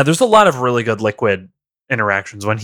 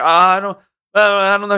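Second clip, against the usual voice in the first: Otacon; 8 semitones higher, faster than usual. Acted. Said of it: "Otacon's like".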